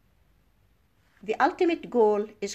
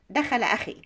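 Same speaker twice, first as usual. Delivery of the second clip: دخل أخي with the end going down; falling statement intonation; much faster than usual. Shown as a demonstration. Teacher showing an Arabic statement, دخل أخي with falling end. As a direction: drop the pitch on أخي. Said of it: "The end of the statement is falling".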